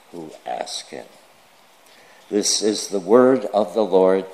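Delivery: measured, emphatic public Bible reading; formal reading with firmly stressed key words; scripture reading. Acted. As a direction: read it out deliberately, pausing between phrases. Reads scripture aloud to the congregation.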